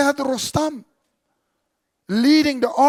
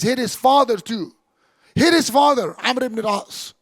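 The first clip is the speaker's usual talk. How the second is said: retold command; 2 semitones higher, 4 dB louder than usual. Umar orders the Copt to strike the father, raised commanding voice. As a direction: press the order home with raised voice.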